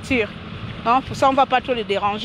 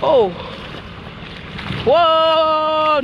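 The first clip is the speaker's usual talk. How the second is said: startled oh; 4 semitones higher than usual. Real, not acted. Startled by the deep water.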